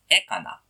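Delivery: "ekana" stressed on the added first e; antepenultimate stress. Shown as a demonstration. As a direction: lean on the opening e of "ekana". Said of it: "you have to stress the verb".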